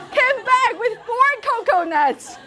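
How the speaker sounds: laughing, slowed; chuckling in delight. Real, not acted. Laughing in admiration.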